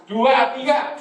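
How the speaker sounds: rallying call to a congregation; loud count-in. Shown as a demonstration. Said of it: "Yang keras".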